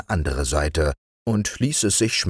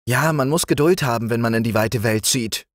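lightly higher, patient frog; a wise little frog, voiced higher; green frog's voice; 7 semitones higher than usual. A narrator's reading. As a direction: frog advising the king on the road, higher voice. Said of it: "meinte der grüne Frosch".

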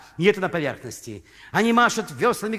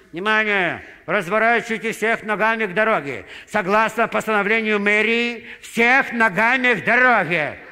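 official announcement; 4 semitones higher, 4 dB louder than usual. Acted. Loudspeaker orders at cemetery.

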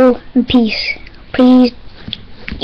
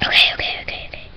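whispering through sour candy; eating sour candy; 10 dB quieter than usual. Real, not acted. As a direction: mouth puckered, barely voiced.

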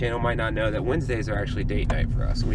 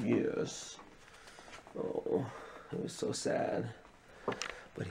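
whispered; 12 dB quieter, slower than usual. Real, not acted. Whispering about the sleeping dog.

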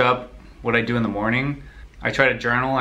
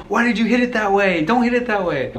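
higher, louder retort, imitating sister; mock angry sister; 10 semitones higher, 4 dB louder than usual. Sister blaming the speaker for the hit, higher mock anger. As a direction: snap the blame right back. Sister yells back in quarrel.

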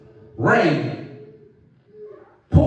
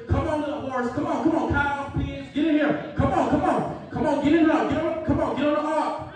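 Noah coaxing animals; 3 semitones higher than usual. Acted. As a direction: coax the animals gently aboard. Noah talking to God and animals.

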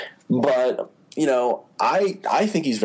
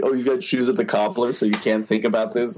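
mock disbelief; 2 semitones higher than usual. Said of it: "it was funny 'cause".

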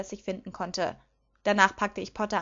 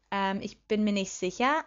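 plain reading voice

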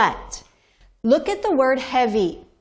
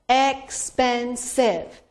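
expensive stretched slowly, syllables spaced; slower than usual. Shown as a demonstration. Teacher counting syllables of expensive for class, slowly. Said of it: "three syllables".

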